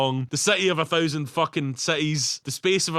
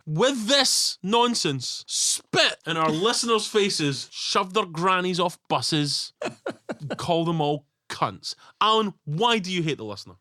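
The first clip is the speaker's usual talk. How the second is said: mock outrage; 3 semitones higher, slower than usual. Mock outraged rant at co-host.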